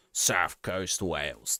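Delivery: put-on slow, low, lightly done Welsh accent; attempted Welsh accent. Streamer describing his Welsh save to chat, in a half-hearted Welsh accent. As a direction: drawl it out in a jokey stab at a Welsh accent. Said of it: "They don't sound like that on the south coast of Wales".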